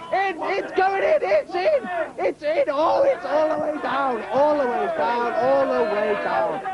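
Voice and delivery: yelling that the egg went in; excited shout. Acted. Mock commentator, egg goes down.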